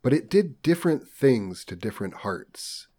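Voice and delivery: measured, formal audiobook delivery; story narration. A narrator's reading. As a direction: read it out like a literary audiobook. Reads novel aloud.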